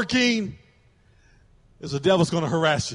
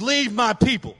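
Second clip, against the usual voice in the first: raised-pitch command; shouted order; 3 semitones higher than usual. Acted. Preacher acting Pharaoh ordering Moses away, commanding. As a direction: order them out firmly. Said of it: "He ordered".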